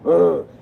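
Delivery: short, fed-up grunt; brief exasperated "ugh"; frustrated groan. Acted. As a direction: groan at the traffic. Acted groan in traffic jam.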